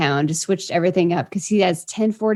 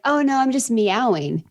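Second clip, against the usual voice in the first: mock-casual, slightly higher retort; casual reply; 5 semitones higher than usual. Caught meowing by a colleague, answering with imitated breezy casualness. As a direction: shrug it off as perfectly normal. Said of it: "so casually".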